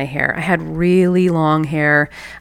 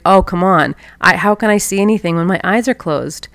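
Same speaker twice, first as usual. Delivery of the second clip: louder, mock-exasperated child protesting; exasperated kid; 5 dB louder than usual. Girl protests to grandmother, hammed-up exasperation. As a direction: whine it like a fed-up kid.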